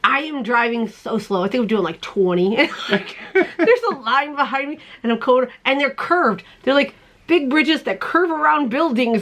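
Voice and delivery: ordinary talk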